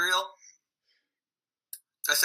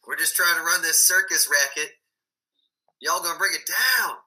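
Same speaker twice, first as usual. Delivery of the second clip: put-on Southern circus man; mock Southern accent; 5 dB louder than usual. Circus Masons protecting their racket, mock Southern accent. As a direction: complain in a hammed-up Southern accent. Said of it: "I don't know why they got Southern".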